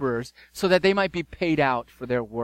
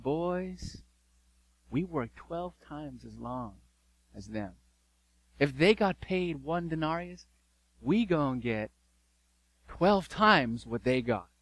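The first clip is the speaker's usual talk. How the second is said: hushed scheming; 5 dB quieter than usual. Acted. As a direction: lean in and whisper the plan to the boys. Workers plotting among themselves.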